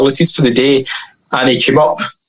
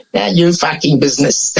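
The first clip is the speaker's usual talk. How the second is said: put-on London accent. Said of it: "my best London accent".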